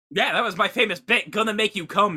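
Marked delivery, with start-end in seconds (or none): none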